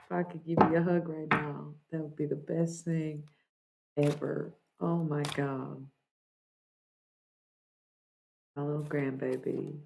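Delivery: soft, choked-up tenderness; moved near tears; close to tears. Real, not acted. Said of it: "I feel like crying again".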